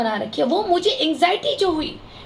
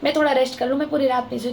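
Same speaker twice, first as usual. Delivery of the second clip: mildly pleading, pitched a little low; recounting a polite, affectionate request to a neighbour; gentle request; 4 semitones lower than usual. Retold or imitated. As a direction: ask nicely, in a lower, understated voice. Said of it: "मैंने इनको प्यार से बोला".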